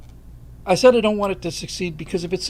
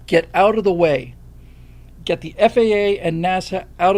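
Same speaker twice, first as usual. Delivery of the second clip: repeated louder, stress on out; forceful demand; 4 dB louder than usual. Real, not acted. Telling NASA, louder, to step aside. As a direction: hammer it home, punch out.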